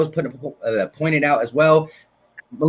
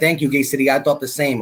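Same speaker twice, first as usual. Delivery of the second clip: ordinary delivery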